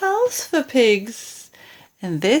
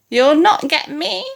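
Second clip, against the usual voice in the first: defiant pig; 5 semitones higher than usual. Acted. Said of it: "the piggy cried".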